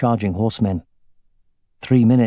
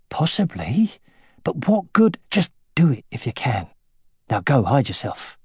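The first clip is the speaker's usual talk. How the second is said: lightly voiced magician; 3 semitones higher than usual. A narrator's reading. Khan the magician answers.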